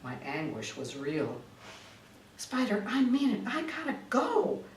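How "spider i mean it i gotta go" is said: higher, pleading and insistent; desperate to leave the booth, higher plea; urgent plea. Acted. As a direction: beg to be let go, pitched up. Pleading to get away.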